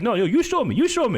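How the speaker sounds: lightly mocked trucker demand; imitating insistent driver.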